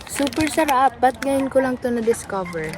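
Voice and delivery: delighted. Real, not acted. Delighted by the snack.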